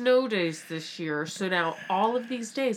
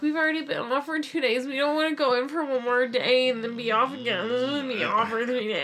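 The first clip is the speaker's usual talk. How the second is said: whiny teachers; 5 semitones higher, faster than usual. Retold or imitated. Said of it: "teachers were like".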